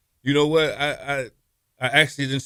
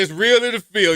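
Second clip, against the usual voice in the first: proud local; 11 semitones higher, 10 dB louder than usual. Retold or imitated. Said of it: "You ask somebody".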